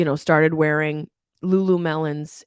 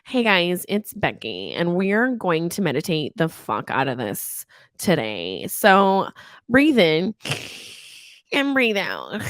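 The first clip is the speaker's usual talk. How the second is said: lightly mocked perky girl guru; girl meditation guide; slower than usual. Mocking a girl who leads meditation apps, girlish guru send-up. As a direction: gently send up an amateur yoga girl. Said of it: "girls that are like".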